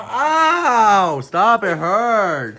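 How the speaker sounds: sharp yelp of pain; pained cry. Real, not acted. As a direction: cry out, it really hurts. Handcuff pulling on wrist.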